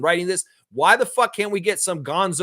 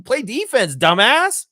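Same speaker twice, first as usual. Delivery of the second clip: blunt mock yell; 8 semitones higher, 7 dB louder, slower than usual. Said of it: "He's saying".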